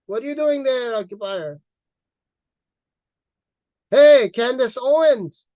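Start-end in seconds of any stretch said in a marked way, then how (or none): 3.9-5.5 loud, drawn-out hail; taunting shout at Candace Owens; calling out. Real, not acted. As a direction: call her out across the room.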